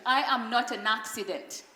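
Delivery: said with conviction. Shown as a demonstration. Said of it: "Please say this with conviction".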